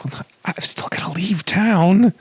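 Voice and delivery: high, slow put-on voice; high slow character voice. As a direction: draw it out in a high voice. Character voice, NPC line.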